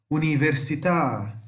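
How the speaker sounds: slow "università", leaning on the final à; Italian "università", last syllable held and strong; final-syllable stress. Shown as a demonstration. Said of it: "Sempre a última sílaba mais forte". ("università" devagar, com a última sílaba forte)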